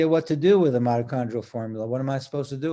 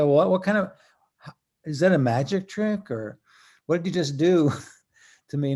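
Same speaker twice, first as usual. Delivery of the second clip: higher, mildly incredulous questioning; puzzled mock amazement, pitched up; amazed onlooker; 3 semitones higher, 3 dB louder than usual. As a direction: act out a baffled customer's astonishment. Acts out amazed people at booth.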